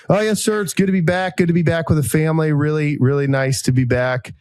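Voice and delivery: sir-saying Southern charm, lightly voiced; Southern drawl. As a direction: put on the polite Southern officer voice he slipped into. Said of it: "I'm gonna talk like I think I talked".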